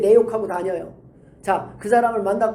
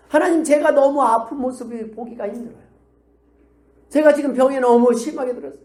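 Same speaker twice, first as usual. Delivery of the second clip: higher, pressing plea to God; earnest, raised-pitch intercession; pleading prayer; 4 semitones higher, 4 dB louder than usual. Acted. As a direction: cry out in acted prayer.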